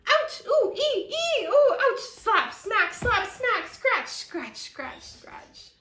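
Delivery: high, loud ouches fading to whisper; frantic yelps. Acted. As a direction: slap at bugs in a panic. Family attacked by mosquitoes.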